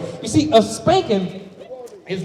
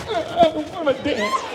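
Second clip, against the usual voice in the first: put-on sulky child; 7 semitones higher than usual. Child answering, quoted.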